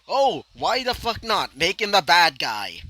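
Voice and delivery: mock the writers tossing off a lazy choice. Fan imitates the show's writers, mock careless. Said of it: "And then they decided".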